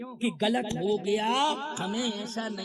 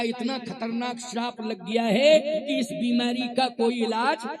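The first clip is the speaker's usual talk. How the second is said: emphatic refusal; 6 dB louder than usual. Retold or imitated. Ashwini Kumar tells Indra no cure exists, emphatic refusal. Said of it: "Ashwini Kumar ने कहा".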